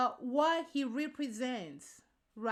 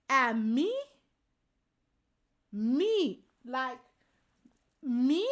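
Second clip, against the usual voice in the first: louder, affronted question; indignant disbelief; 3 dB louder, much slower than usual. Real, not acted. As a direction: demand it back, offended.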